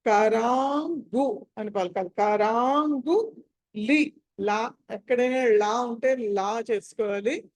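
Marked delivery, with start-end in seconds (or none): 0.1-4.1 కరాంగు with "ng" sounded before the g; nasal consonant before "gu". Shown as a demonstration. Teacher explaining the anusvaram, కరాంగు with a clear "ng". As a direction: hold the long "raa" into "ng" in కరాంగు. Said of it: "పంచమాక్షరం".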